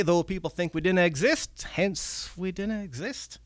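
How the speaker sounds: remember a thousand years ago with longing; wistful old goblin. Acted. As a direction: goblin mourning lost belief. Red cap reminiscing.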